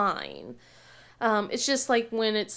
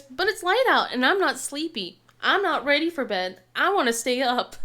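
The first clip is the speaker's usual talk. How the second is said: whiny daughter; 3 semitones higher, 4 dB louder than usual. Retold or imitated. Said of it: "she goes".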